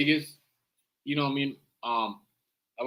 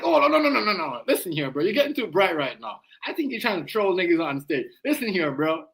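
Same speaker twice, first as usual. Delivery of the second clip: imitating Trump. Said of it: "Trump is like".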